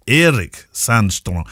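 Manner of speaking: "Erik Sandstrom" sounded out slowly, long first vowel; tentative pronunciation of Erik. Shown as a demonstration. Host puzzling over a listener's name, slowly sounding out "Erik Sandstrom". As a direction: try "Erik Sandstrom" slowly, as spelt with two E's. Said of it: "how do you say Eric when".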